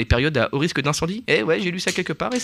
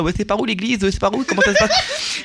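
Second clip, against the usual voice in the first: slushy lisp; 6 semitones higher than usual. Retold or imitated. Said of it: "qui zozotent comme ça".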